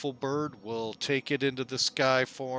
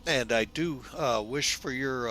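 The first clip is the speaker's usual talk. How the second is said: yawning. Real, not acted. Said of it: "pardon there on the fact I just yawned".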